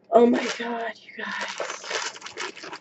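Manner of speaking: gasp, then a hushed whisper; breathless with awe; awed whisper. Real, not acted. Seeing the skirt, she whispers in awe.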